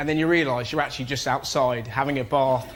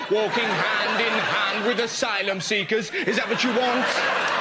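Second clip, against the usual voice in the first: ranting right-winger. Acted. Right-winger answering a question on fox hunting, mock ranting. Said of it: "fun baiting right-wing people".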